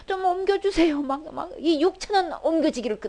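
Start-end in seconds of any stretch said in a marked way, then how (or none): 0.0-1.0 higher, pleading voice of someone at the end of their strength; pleading prayer. Retold or imitated. Jesus praying to be spared the cup, high pleading voice. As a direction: beg gently, as if it cannot be borne. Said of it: "참 이 주님의 이 기도 제목".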